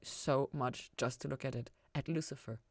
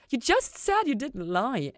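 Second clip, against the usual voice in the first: higher, louder and slower, pinning him down; accusing; 9 semitones higher, 8 dB louder, slower than usual. A narrator's reading. Ella accusing Lucifer of lying, accusing and loud. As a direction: call out the lie with a sharp accusing jab. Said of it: "Ella accused".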